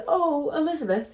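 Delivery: high, hammed-up British accent; a deliberately bad posh British impression; the speaker's British accent. Art agent praising her new piece, in a bad British accent. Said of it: "This is my horrible British accent".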